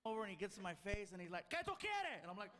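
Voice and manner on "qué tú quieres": mock yell. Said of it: "Why is he yelling?".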